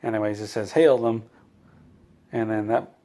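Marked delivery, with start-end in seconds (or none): 0.7-1.2 loud, crisp command to the bridge; captain's order. Acted. Picard ordering the bridge crew, loud command. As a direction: bark the order like a starship captain.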